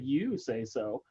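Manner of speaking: slow, mocking "You say so."; mocking reply. Jesus answering the governor Pilate, slow and lightly mocking. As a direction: drag out "so" slowly and dryly, lightly mocking. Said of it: "a mocking emphasis on the same word".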